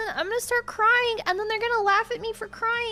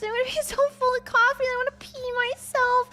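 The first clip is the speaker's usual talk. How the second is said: higher voice, laughing through the words; 6 semitones higher than usual. Real, not acted. Telling how full of coffee they'll be, laughing. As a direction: tell it while cracking up.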